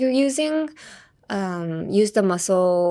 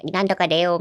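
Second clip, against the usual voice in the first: a hint of a frog voice; keroKero frog voice; 2 semitones lower, much faster than usual. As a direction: lightly put the throat forward like a frog. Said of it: "they usually use aケロケロボイス". (軽くケロケロボイスで)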